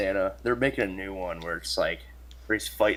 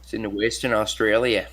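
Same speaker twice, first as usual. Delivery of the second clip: put-on Australian accent. Joking Australian accent about Australia.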